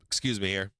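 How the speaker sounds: hiccuping mid-sentence; speaking through hiccups. Real, not acted. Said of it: "Sorry, I get the hiccups".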